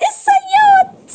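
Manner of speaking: high, drawn-out mock wail; tearful mermaid. Mermaid names who harmed her to the princess, tearful. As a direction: cry the word out slowly in a high voice. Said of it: "ما تعيطيش تاني".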